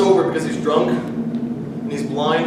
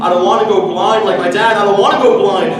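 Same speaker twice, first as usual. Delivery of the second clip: loud, fast, frightened plea; pleading; 6 dB louder, faster than usual. Acted. Child pleading with mother about going blind, scared loud plea. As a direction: beg her not to send you back.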